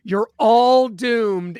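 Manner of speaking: slow ominous drawl, lightly voiced; Crazy Ralph warning. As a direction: draw it out slowly like a doom prophet. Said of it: "sending you a Crazy Ralph hat".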